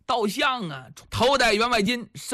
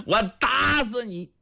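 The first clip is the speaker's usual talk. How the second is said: acted angry outburst; furious threat. Enraged uncle threatening to beat his nephew, acted fury. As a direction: throw out the threat as a stick is raised. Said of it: "气得晁盖呀，浑身发抖".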